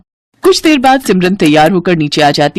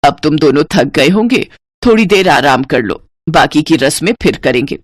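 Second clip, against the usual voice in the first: put-on lower, kindly older woman voice; lower, soothing motherly tone; mother-in-law; 3 semitones lower than usual. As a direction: speak as a gentle elderly mother-in-law.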